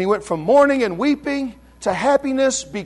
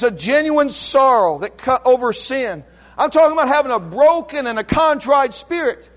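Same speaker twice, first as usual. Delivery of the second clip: usual speaking voice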